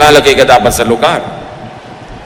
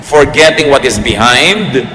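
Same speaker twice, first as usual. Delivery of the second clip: slow, measured Bible verse recital; unhurried preacher quoting scripture; scripture reading; slower than usual. Real, not acted. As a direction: read the verse out slowly and deliberately.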